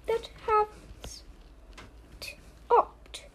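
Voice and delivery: slow, breathy whisper. Acted. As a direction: whisper it mournfully, very slowly. Reading sad list to kids.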